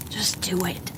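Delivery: soft inner whisper. A narrator's reading. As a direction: hush it like a voice in his head. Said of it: "a little voice whispers".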